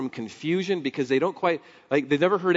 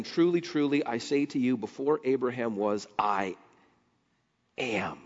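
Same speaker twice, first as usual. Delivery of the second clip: solemn Jesus. Retold or imitated. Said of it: "Jesus said to them".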